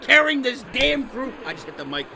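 triumphant rant. Real, not acted. Gamer bragging to his team after the win, triumphant shouting. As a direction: crow about carrying the team.

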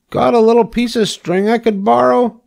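high, hopeful pig request; eager pig. A narrator's reading. Pig asks rat to lend string, eager. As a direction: ask brightly as a little pig.

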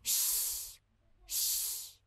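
hushed shh to quiet a friend; shushing. Acted. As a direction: shh them down softly. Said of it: "Eles falam aqui".

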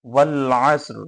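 ওয়াল আসর recited to a vowelless r; waqf stop ending. Shown as a demonstration. Teacher demonstrating how to read it, ওয়াল আসর stopped on r. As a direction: end ওয়াল আসর on the consonants s and r. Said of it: "কিভাবে পড়তে হবে সেটা তো দেখিয়ে দিলাম".

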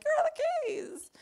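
high, breathless whispered panic; panicked whisper. Retold or imitated. Searching her car, she frets to herself in a high panicked whisper. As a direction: hiss the question in frantic alarm.

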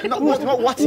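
amused "water" with an ee ending; mock his "water" as "wa-tee"; mimicked mispronunciation. Correcting the friend, laughing imitation of "water" as "wa-tee". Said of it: "No, no, no, no, no".

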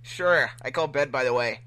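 a yawn before the line. Shown as a demonstration. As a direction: let a yawn roll into the words. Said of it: "There you go".

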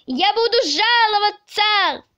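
high-pitched wail of complaint; indignant shouting. A narrator's reading. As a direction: cry out the threat in a high voice. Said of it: "кричал". (возмущённо кричать)

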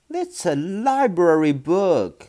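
put-on girl crying out over her book. A narrator's reading. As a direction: cry it out in alarm. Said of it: "Matilda cried".

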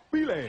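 loud tongue click starting "Bile"; "Bile" launched with a sharp click; click in the name. Acted. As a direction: pop a click before "Bile". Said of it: "He had a click in his name".

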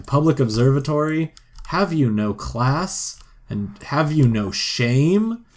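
slow, theatrical scolding; hammed-up prudish outrage; mock indignant.

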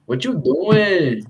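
mock Chicana accent, long dragged vowels. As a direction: imitate a Chicana accent, stretching the words. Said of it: "you have that Chicana accent".

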